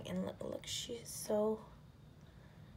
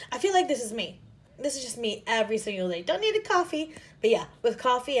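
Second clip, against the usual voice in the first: excited; 4 semitones higher, 8 dB louder, faster than usual. Real, not acted. Relating to sleepy rat sticker.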